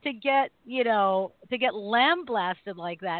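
high, disbelieving "Really?" that climbs and stays up; incredulous. Retold or imitated. Host retelling what she thought when a woman mocked her training, incredulous. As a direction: replay the outrage of being called out for nothing. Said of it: "And I'm thinking".

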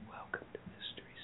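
breathy unvoiced whisper of a video host. Imitating the Scottish host's creepy whisper intro. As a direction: hush it like an ASMR host. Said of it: "he's just whispering".

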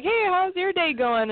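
nice greeting. Retold or imitated. Driver greeting the gate guard at the gate, nicely. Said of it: "usually I greet them nicely".

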